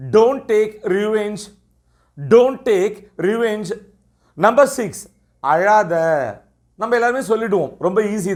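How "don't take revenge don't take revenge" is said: slow teacher model phrase. Shown as a demonstration. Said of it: "அல்லது".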